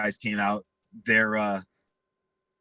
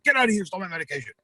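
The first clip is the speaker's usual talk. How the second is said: furious repeat; 7 semitones higher, much faster than usual. Retold or imitated. Cousin repeating to him at the door, high furious yell. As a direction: yell it again, even higher.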